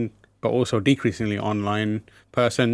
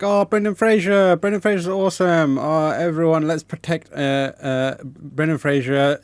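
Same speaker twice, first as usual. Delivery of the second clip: gushing fan; 4 semitones higher than usual. Retold or imitated. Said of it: "everyone was like".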